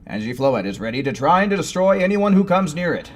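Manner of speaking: booming fighting game announcer. Acted. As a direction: hype it up like an arena announcer. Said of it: "so I'm just doing my announcer voice".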